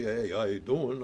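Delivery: a touch of thick Jersey street talk; mild Jersey accent on a casual hello; New Jersey accent. Shown as a demonstration. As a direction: lightly drop into a Jersey tough-guy greeting. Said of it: "I could be".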